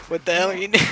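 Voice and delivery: mock shout in disbelief; half-laughing mock yell. Mock yelling at teammate.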